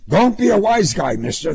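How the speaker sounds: sharp threat, easing at the end; warning. A narrator's reading. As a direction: put the smart aleck in his place. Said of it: "the officer warned him".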